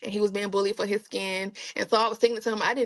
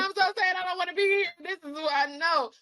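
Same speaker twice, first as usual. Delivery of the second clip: mock sad; 8 semitones higher than usual. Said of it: "I was like".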